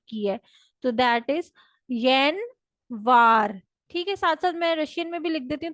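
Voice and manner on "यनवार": यनवार drawn out, falling at the end; Russian yanvar. Shown as a demonstration. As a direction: stress यनवार and let it fall. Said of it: "Russian language में कहते हैं यनवार". (यनवार पर ज़ोर, गिरती आवाज़)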